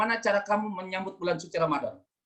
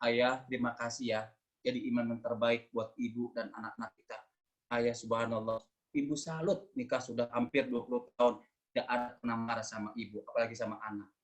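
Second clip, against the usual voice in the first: tearful gratitude; 5 semitones lower, 7 dB quieter than usual. Acted. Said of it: "sambil nangis".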